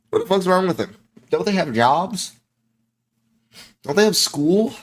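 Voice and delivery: high-pitched baffled questions; incredulous outburst. Real, not acted. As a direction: demand it in rising, scandalised disbelief. Outraged at people out clubbing.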